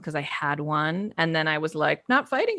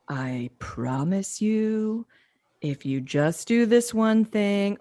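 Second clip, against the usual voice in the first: forced calm; much slower than usual. Retold or imitated. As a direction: speak slowly with rage held under. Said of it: "you can calmly say it".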